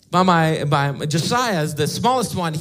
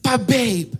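put-on pleading child; 6 semitones higher than usual. Son begging again, crying.

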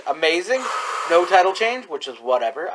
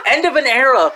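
laughing; 5 semitones higher than usual. Real, not acted. Laughing rant at old wrestlers.

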